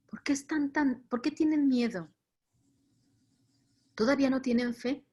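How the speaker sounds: tender asking, without scolding; imagined tenderness. Acted. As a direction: reassure frightened friends with mild reproach. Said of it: "con qué ternura les habrá hablado".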